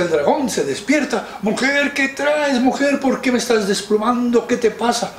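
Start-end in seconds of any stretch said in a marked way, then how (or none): 1.4-5.1 high, exasperated dragon voice; irritated dragon. Acted. Dragon scolds his wife for waking him again. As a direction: demand answers as a cranky dragon. Dragon woken a second time.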